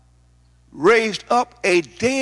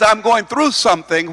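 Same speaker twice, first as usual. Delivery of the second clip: "through" given firm emphasis; stress on THROUGH; 3 semitones higher than usual. Shown as a demonstration. Preacher quoting the phrase to explain it, stressing "through". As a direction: make "through" the key word. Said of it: "You have to put emphasis on the word".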